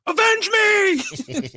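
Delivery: dying cry, dragged out high; overacted death scene. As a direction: ham up a dying plea. Youngblood movie quote, acted.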